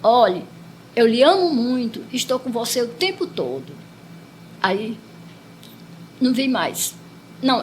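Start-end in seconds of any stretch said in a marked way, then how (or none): 0.0-3.7 more energetic, firm reply; Jesus. Retold or imitated. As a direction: insist energetically, as if to be heard. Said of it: "mais enérgico".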